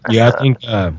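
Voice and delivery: talking around a bite of bagel; chewing while talking; mouth full. Real, not acted. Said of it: "you caught me with the bagel in my mouth".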